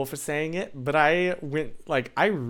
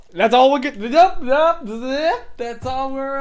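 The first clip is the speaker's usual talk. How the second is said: much higher, squeaky joking voice; mock high squeak; 10 semitones higher, 7 dB louder, slower than usual. Streamer squeaking at chat about politics, in a mock high voice. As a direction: squeak it out in a silly high pitch.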